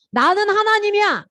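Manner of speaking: high, ringing proclamation; hammed-up divine declaration; voice of God. God declares himself to Moses.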